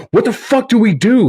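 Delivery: panicked. Retold or imitated. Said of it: "I'd be like".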